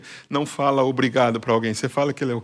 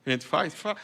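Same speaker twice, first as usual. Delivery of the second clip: ordinary delivery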